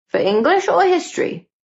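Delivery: very high squeaked question; squeaking. A narrator's reading. Red-faced Gordon questions the teacher, squeaking. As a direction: squeak it out, pitch shooting up. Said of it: "he squeaked".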